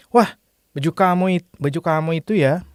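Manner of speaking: mother's mild surprise, lifted on "Wah", brisk through "baju kamu itu ya"; surprised intonation. Shown as a demonstration. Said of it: "like, the intonation".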